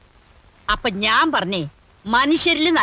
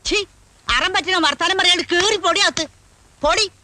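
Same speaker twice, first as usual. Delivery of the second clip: higher-pitched cross order; scolding; 5 semitones higher than usual. Acted. Grandmother sending the child indoors, scolding. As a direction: shoo the child off sharply.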